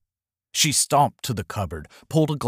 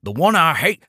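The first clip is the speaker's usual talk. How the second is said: out loud; 2 semitones higher than usual. Acted. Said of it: "Out loud, he said".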